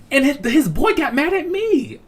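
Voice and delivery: high, drawn-out incredulous squeal breaking into laughter; laughing disbelief. Real, not acted. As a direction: squeal it like you can't believe it. Disbelief that the boy blamed him.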